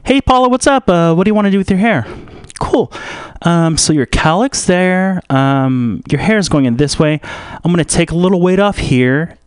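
lightly voiced hairdresser talking a client through a cut; Cree Longstreet. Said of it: "this is an impression of Cree Longstreet".

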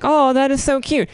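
high, doting coo; mom cooing. Retold or imitated. Mom cooing again at the toddler's mispronunciation. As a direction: gush over it like a proud mom. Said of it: "And it was like".

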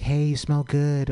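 high, slow imitation of a woman complimenting him; woman's compliment. Woman flattering a male comic, high mock-admiring voice. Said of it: "when women give me compliments like".

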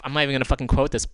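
angry. Real, not acted. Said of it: "so fucking angry".

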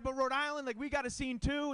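high squeaky defensive pitch; mock pleading. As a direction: whine your case for Rhode Island. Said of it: "I'm like".

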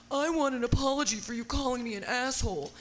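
mock indignant demand; a rock singer. Host mimics the man wanting an apology, mock offended.

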